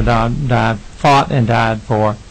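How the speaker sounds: choked up, dragging out fought and died for; real emotion breaking through the testimony; emotional. Real, not acted. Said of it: "I'm sorry for getting emotional".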